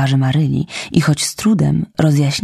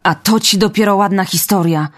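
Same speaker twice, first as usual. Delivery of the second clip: exclaiming; 5 semitones higher than usual. Acted. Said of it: "wykrzyknęła Maryla".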